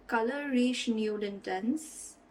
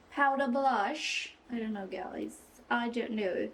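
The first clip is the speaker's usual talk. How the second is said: fake British accent. Vlogger talking to herself over too much blush, fake British accent. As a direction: slip playfully into a mock British accent. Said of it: "my fake British accent comes out".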